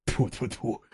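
spitting. A narrator's reading. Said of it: "трижды плюёт к порогу".

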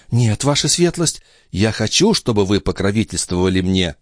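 put-on high young maid's voice; Nicole voice. Maid pleading with the old duke, high girlish voice. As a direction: play the pert young maid.

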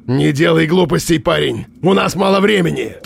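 high urgent command. A narrator's reading. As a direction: warn him sharply. Armed man commands urgently.

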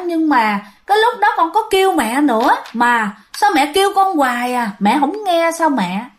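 put-on a seven-year-old calmly telling her mom; a hint of a little girl, matter-of-fact; little girl answering nonchalantly. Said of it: "Con bé nó trả lời tỉnh bơ".

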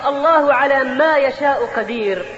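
slow, deliberate quoting of the wrong phrase; drawn out slowly to show the error; wrong phrase quoted. Shown as a demonstration. Preacher slowly quoting a wrong saying to the congregation. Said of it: "وقول بعضهم".

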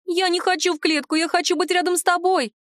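high, pleading lament; wailing. Acted. House spirit begs not to be sent to the zoo, high wail. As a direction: cry out not to be caged, high up. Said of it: "запричитала Махрыня".

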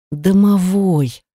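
through gritted teeth. Acted. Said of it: "процедила сквозь зубы".

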